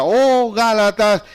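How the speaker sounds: fatherly scolding. Acted. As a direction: chew them out like a father. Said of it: "hablando con esa confianza". (reprensión fuerte de padre a la iglesia)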